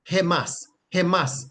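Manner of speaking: "hemas" said as two separate, clear syllables; pronunciation demo. Shown as a demonstration. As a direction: pronounce "hemas" carefully for learners. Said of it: "that would be pronounced".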